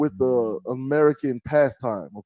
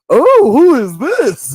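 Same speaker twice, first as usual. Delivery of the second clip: high, loud, slow squeal with a laugh; dog voiced as a person; 11 semitones higher, 11 dB louder, much slower than usual. Retelling the dog reacting to Jesus on screen, high squeaky mock voice. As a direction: put on a high silly dog voice. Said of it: "And my dog goes".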